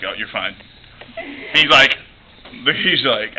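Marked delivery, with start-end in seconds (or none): 0.0-0.6 lower, softer reassuring; a lightly voiced calm rescuer; John Goodman voice.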